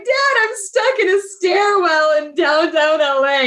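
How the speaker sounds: high, tearful wail to her dad; crying to dad on the phone, pitched high; retold crying. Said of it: "I'm bawling my eyes out".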